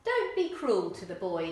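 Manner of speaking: Doll Snarby shouting in Cockney; loud Cockney mum telling him off; Cockney woman shouting. Acted. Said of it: "Doll Snarby shouted".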